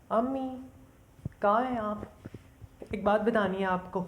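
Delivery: high, loud call through the house. Acted. Daughter calls out to find her mother, loud and high. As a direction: call out for mother from another room.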